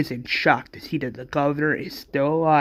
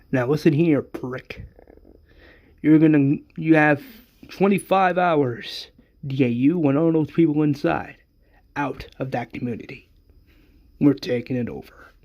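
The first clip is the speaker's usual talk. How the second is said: forceful, emphatic villain's demand; menacing ultimatum. Acted. Governor orders Rick out of the community, menacing. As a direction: lay down the terms hard.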